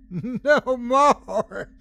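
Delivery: high, crazed triumphant cry; gleeful yell. A narrator's reading. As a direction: yell it with wild delight. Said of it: "she yelled gleefully".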